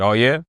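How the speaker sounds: "Oh, yeah?" pitched low with a rising "yeah"; questioning comeback. Shown as a demonstration. Man showing how he answered police, low questioning comeback. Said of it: "I literally just said it like that".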